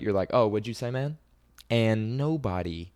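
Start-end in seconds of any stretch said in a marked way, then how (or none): 0.3-1.2 a casual, friendly "Oh, what'd you say, man?", louder and higher; nice about it. Shown as a demonstration. To a stranger who bumped him, disarming and friendly. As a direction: make him repeat it without any threat. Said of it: "You're kinda nice about it".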